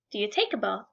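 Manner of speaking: "Do you take a bath?" dropped low and soft; plain middle-class take on "Do you take a bath?"; middle-class phrasing. Shown as a demonstration. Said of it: "the U and the non-U".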